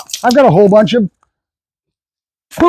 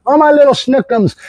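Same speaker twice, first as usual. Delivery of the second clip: mock baby talk; 5 semitones higher than usual. Owner coddling dog like child.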